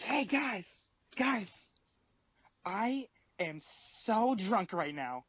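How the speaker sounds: put-on high, slow, sloppy drunk voice; drunk girl voice. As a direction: play the drunk friend, sing-song and slurred. Drunk friend voiced in story.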